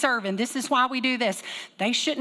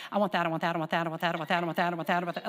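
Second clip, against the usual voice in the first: put-on whining toddler; 4 semitones lower, 3 dB quieter, much faster than usual. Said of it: "she would say".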